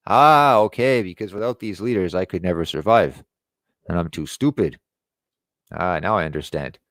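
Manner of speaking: mock dawning realization, mildly sarcastic. Mocking people who trust leaders, sarcastic. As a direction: play the fool who finally gets it, lightly mocking. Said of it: "I'm being sarcastic, obviously".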